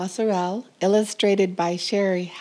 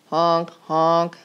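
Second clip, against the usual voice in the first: honk; 2 semitones lower than usual. A narrator's reading. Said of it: "went the school bus".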